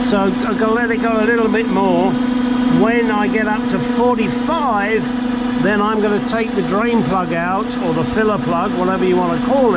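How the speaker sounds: strained voice from under a car; lying under a car. Real, not acted. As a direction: talk flat on your back under a car. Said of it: "so now I'm under the car".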